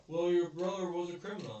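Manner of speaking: imitating a cop's loud jab; mock taunt. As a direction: toss it out like a smug cop taunting him. Cop taunting grieving man, retold.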